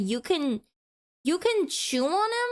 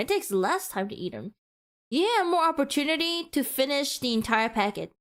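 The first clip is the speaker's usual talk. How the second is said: princess voice; 3 semitones lower, faster than usual. Acted. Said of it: "Why are you talking like a princess?".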